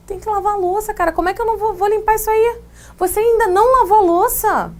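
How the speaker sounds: high, exasperated scolding mother; nagging mom. Acted. Teacher acting a mother scolding about dishes, high nagging. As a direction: play the fed-up mom scolding her kid. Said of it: "isso é mãe".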